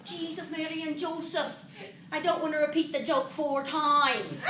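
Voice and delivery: exasperated Irishman backing off; Irish accent. Acted. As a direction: put on a light Irish lilt, weary of explaining. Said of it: "an Irish accent".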